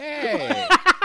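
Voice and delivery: bad, high, loud mock Boston accent.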